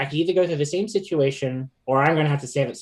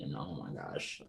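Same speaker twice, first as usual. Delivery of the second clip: ordinary talk, nothing marked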